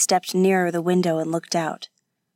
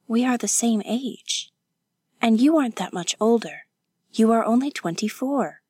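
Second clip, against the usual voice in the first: higher, lightly insistent voice; protesting young woman; 4 semitones higher than usual. Acted. Kazuko correcting her companion about their ages, protesting. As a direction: protest with lifted pitch.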